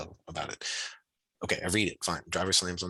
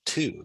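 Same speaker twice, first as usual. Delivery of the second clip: "to" lifted higher for emphasis; stressed keyword; 4 semitones higher than usual. Shown as a demonstration. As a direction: set "to" apart as the key word. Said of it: "That's a keyword".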